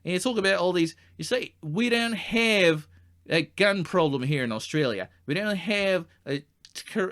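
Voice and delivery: heated, high-pitched rant; going off. Acted. Guide rants at supposed Americans about their country, going off. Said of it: "I apologise for going off".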